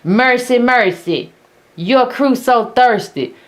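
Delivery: a light mock sermon, slow and drawn out; mock preacher. Mocking the commentator with a lightly voiced, slow preacher sermon. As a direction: imitate a preacher calling the congregation to scripture. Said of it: "probably talking about".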